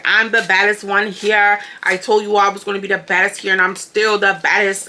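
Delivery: lightly put-on accent for a proud proclamation; Linda accent. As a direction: have a go at mimicking her accent. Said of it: "this is my Linda accent".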